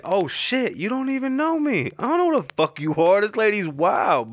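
high, startled exclamation; shocked outburst. Retold or imitated. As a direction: yelp it in disbelief. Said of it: "And I was like".

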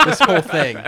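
loud strained hauling; carrying heavy load. Pretend. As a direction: strain like lugging a body. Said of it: "so much heavier than I thought".

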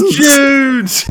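high, very slow drawn-out cry; mock-anguished landlord call; Leonard Rossiter impression. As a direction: stretch the name out in a sitcom whine. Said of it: "Richie from Bottom when he does his Leonard Rossiter".

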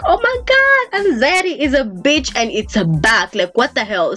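shocked exclaim. Retold or imitated. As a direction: burst out in shock. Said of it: "you're just like".

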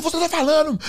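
high accusing retort; agitated mock argument; retold indignant insistence. Retold heated confrontation.

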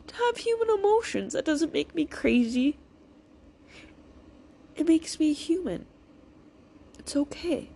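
high-pitched, emotional self-comforting; retold self-reassurance. Speaker telling herself emotions are human, retold tender reassurance. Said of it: "I kept telling myself that that's okay".

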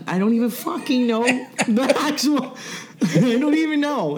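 high laughing frustration. Real, not acted. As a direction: giggle through exasperation. Laughs at own confusion.

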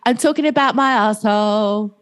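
lightly voiced film pop star; film singer impression. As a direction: imitate her saucy movie line. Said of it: "When she goes".

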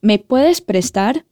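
slow, clear model phrase; slow repeat-after-me. Shown as a demonstration. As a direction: say it slowly for learners. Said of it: "Repete comigo como a gente pergunta".

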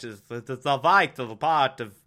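lightly put-on Russian accent; half-hearted stab at a Russian accent; attempted Russian accent. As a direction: try a bad Russian accent. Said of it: "the Russian accent".

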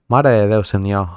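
put-on botched Catalan accent with an Asturian lilt; muddled regional accent imitation, Catalan and Asturian; Asturian-Catalan mix accent. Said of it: "qué clase de imitación es esa".

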